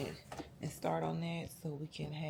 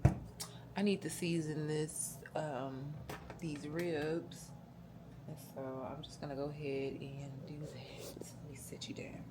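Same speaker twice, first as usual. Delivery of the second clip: whispering; 6 dB quieter than usual. Real, not acted. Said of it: "I'm whispering because my family is back there sleeping".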